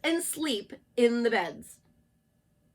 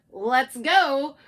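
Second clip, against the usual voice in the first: crowing; 3 semitones higher, 6 dB louder than usual. Acted. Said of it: "crowed Cocky Locky".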